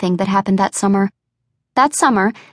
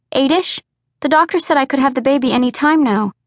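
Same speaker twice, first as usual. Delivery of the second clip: put-on higher, lighter voice for the young, bubbly woman; young woman Misty; 4 semitones higher than usual. A narrator's reading. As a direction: lift the pitch for the excitable younger friend. Misty answers about pregnancy.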